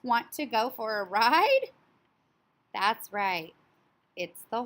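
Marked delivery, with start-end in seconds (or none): 0.0-1.7 high, loud neighing horse voice. Acted. Teacher voicing the horse for her class, high and loud. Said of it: "The character said".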